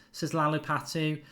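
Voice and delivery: normal talking voice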